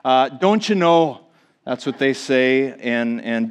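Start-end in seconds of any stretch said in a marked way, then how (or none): 0.3-1.2 a Minnesota "Don't you know?" with rounded vowels and a falling end; a light mock Minnesota "Don't you know?"; Minnesota accent. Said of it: "people say things like".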